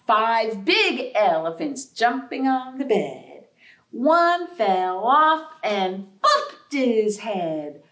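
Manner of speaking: sing-song nursery rhyme chant; counting rhyme. Acted. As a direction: bounce through it like a playground rhyme.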